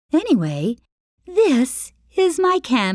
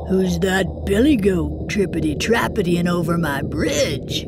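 roaring troll; 3 semitones lower than usual. Acted. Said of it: "roared the troll".

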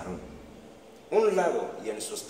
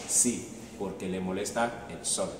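soft koala reply; 4 semitones lower, 5 dB quieter than usual. Acted. Koala answers sleepily.

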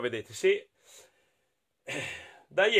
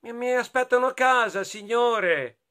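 put-on higher-pitched child character voice; lightly voiced boy, pitched up; good little boy; 8 semitones higher, 3 dB louder than usual. A narrator's reading. Boy excusing himself to the pirate, higher child voice.

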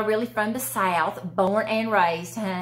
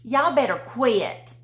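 teasing Southern usage; 2 semitones higher, slower than usual. Shown as a demonstration. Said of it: "we use the word yuns".

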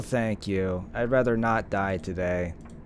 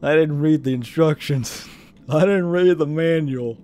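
exaggerated southern yokel accent; 5 semitones higher, 8 dB louder than usual. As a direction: play up a mock southern accent. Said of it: "I make myself laugh over the southern accent".

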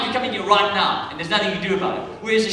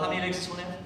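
mock counting; 2 semitones lower, 8 dB quieter than usual. Mock committee counting legs.

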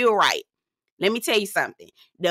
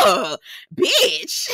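disgusted. Retold or imitated. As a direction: screech like you can't believe it. Reacting with disgust.

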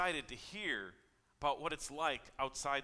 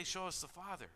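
Philip's request echoed back, higher; Jesus echoing Philip; 6 semitones higher, 4 dB quieter than usual. Retold or imitated. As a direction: repeat his words back in disbelief. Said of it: "How can you say".

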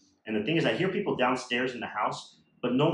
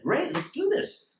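much higher, slow and drawn out; eager yes; slower than usual. Retold or imitated. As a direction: savour it like a win. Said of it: "I was like".

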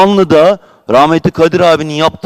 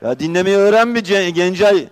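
raised, angry retort; heated retort; 4 semitones higher, faster than usual. Real, not acted. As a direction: snap back at the rival, pitch climbing. Heated council quarrel. (meclis rakibine öfkeyle, yüksek perdeden çıkışma)

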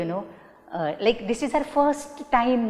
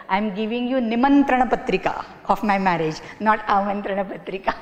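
imitating a student; faster than usual. Teacher quoting a student's wedding invite joke, light mock voice. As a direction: rattle it off like a proud student. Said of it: "some students still remember".

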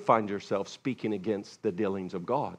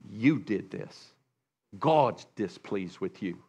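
accusing friend; 3 semitones lower, 6 dB quieter than usual. Retold or imitated. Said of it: "you could come and say".

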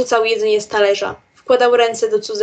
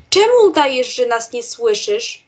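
put-on girl's shriek. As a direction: yell the question at the unmoving brother. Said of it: "wrzasnęła".

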